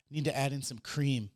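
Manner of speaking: lightly imitating suggestive cooking host; slow down into teasing innuendo; mildly sultry parody, drawn out at the end; mock innuendo. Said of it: "it's just sexual innuendos the whole time".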